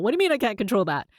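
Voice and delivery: fast, panicky question; anxious rush. Retold or imitated. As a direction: blurt it out fast in a mild panic. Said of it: "Before you get into an anxiety-driven spiral".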